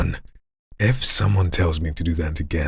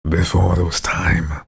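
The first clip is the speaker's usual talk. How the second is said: growly voice; slower than usual. Shown as a demonstration. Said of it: "a mixture between a growl".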